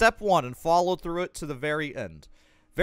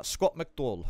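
slightly goofy, slow and lower; goofy name voice; 3 semitones lower than usual. Acted. Streamer reading out the guide writer's name, lightly goofy voice. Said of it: "saying his name in a fucking goofy voice".

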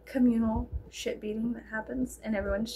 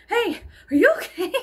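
higher, louder, laughing check-in; high laughing mock concern; 9 semitones higher, 6 dB louder than usual. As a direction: ask it through a laugh.

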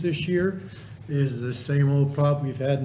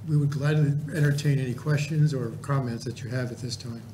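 losing my voice, hoarse and strained. Real, not acted. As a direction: talk through a worn-out, hoarse throat. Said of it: "I'm losing my voice".

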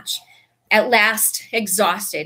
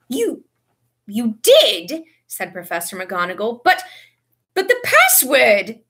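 slow, loud stunned stammering; 3 semitones higher, 5 dB louder, slower than usual. A narrator's reading. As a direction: stammer in disbelief.

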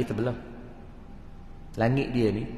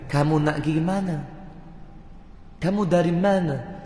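sedikit loghat Arab; Arab accent in Malay; 2 semitones higher than usual. Retold or imitated. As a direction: tiru orang Arab cakap Melayu. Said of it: "orang Arab bila cakap Melayu". (loghat Arab)

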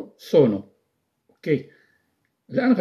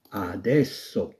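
adesso drawn out slowly and softly; slow, soft model word; 4 semitones lower, 4 dB quieter, much slower than usual. Shown as a demonstration. Teacher pronounces the new word slowly and softly. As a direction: lay adesso out syllable by syllable. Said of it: "كلمة الآن نعني بها ماذا؟".

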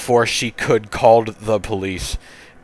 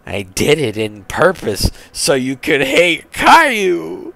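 higher voice, climbing at the end; mom's voice; 6 semitones higher than usual. Acted. Mom admitting her plan to her child, higher-pitched. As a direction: explain it in a raised, sing-out mom voice.

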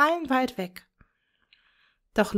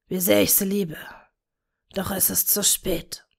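wistful whisper. A narrator's reading. Tom to Bella, mourning their lost daughter, wistful whisper. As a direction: murmur it like a grieving father. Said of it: "flüsterte wehmütig".

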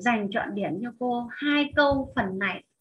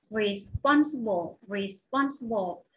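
slow "Responsible", stressed on SPON; teacher's slow model of "Responsible"; stress on second syllable; 3 semitones lower, slower than usual. Shown as a demonstration. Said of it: "là âm thứ hai".

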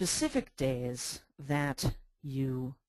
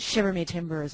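louder mock pirate exclamation; half-hearted pirate; 5 dB louder than usual. Shown as a demonstration. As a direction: toss in a hint of pirate. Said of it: "talk like a pirate all day long".

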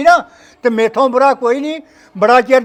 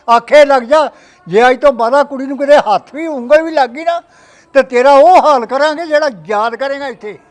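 angry threat; 5 dB louder than usual. Acted. Father threatens son-in-law.

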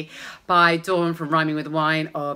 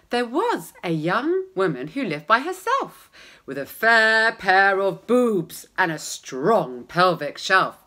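story narration. Acted. Reads the rhyming parody aloud.

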